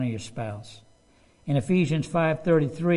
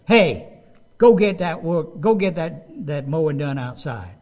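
loud, bossy "Hey, go get that work"; demanding order; 6 dB louder than usual. Shown as a demonstration. Preacher acting a husband ordering his wife about, loud and bossy. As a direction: bark the chore order at your spouse. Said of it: "is not respectful".

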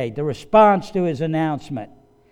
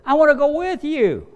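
put-on high, louder childlike whine; child pleading; 10 semitones higher, 5 dB louder than usual. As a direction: beg like a kid who wants to come along. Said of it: "when your children wanna go with you".

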